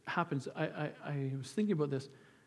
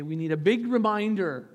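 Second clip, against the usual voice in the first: "big reminder" punched louder; emphatic correction; 3 semitones higher, 6 dB louder than usual. Real, not acted. Preacher correcting himself from little to big, emphatic. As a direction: lift and swell on "big reminder".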